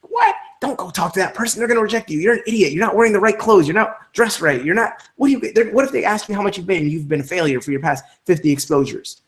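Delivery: high mocking inner voice, nagging; high whiny self-doubt voice nagging you; the weakness screaming. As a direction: whine like a panicky inner critic. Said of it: "starts screaming at you and starts going".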